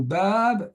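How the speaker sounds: "bab" with a prolonged a; long A. Shown as a demonstration. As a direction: hold the a in "bab". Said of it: "on entend bien le A qui se prolonge". (« bab » en prolongeant le a)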